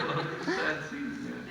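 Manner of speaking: high, airy laughing reply; laughing excuse. Retold or imitated. Actor retells his excuse to the director, laughing. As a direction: defend yourself while laughing.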